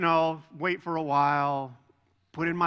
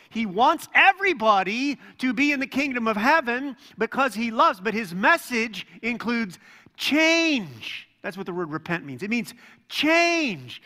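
higher and louder, driving the point home to the congregation; preaching at full force; 6 semitones higher, 6 dB louder than usual. Acted. Pastor urging the congregation that heaven is near, rising fervent preaching. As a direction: build the fire of a preacher, pressing each line.

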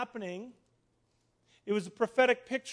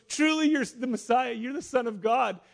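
loud, higher acted proclamation; amazed Nathanael; 4 semitones higher, 6 dB louder than usual. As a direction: exclaim it in dawning amazement. Nathanael acted exclaiming his belief.

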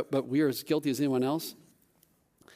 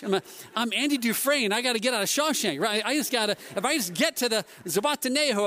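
higher-pitched, breakless comic panic; mock frantic; 5 semitones higher than usual. Loaded-up dad fleeing to the beach, mock frantic. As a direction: act out a mild desperate dash.

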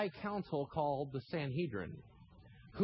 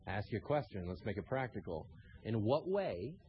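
ordinary talk, nothing marked

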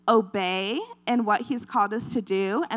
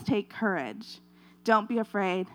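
quiet voice of the Lord; 3 semitones lower, 6 dB quieter than usual. Acted. Lord's words quoted softly.

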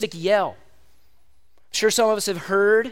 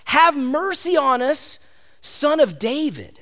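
mild acted yell; 4 semitones higher, slower than usual. Blind men calling to Jesus through a crowd, mild yell. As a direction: call it out slowly like a half-hearted yell. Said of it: "and then they yell".

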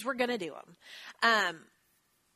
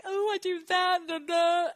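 mock wallowing; 9 semitones higher, 6 dB louder than usual. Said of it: "wallowed down and, like".

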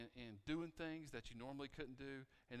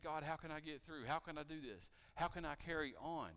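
anxious prayer; 4 semitones higher, 4 dB louder than usual. Retold or imitated. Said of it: "maybe you think".

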